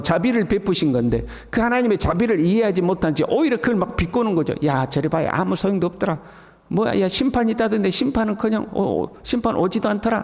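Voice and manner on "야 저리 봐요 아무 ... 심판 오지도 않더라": mocking sneer. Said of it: "하고 비꼬는 거죠".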